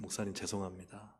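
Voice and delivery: soft, subdued apology to a pastor; retold apology. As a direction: apologize quietly and humbly. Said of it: "목사님께 제가 말씀드렸어요".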